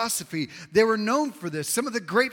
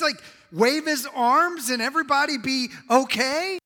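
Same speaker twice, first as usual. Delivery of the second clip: higher, louder incredulous questioning; incredulous doubter; 5 semitones higher, 4 dB louder than usual. Acted. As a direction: act out a baffled skeptic demanding answers. Voicing a baffled doubter's objections.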